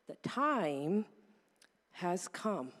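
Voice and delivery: triumphant cry that sinks into a solemn hush; God announcing the deliverance from Egypt; God's voice. Retold or imitated. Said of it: "and God says".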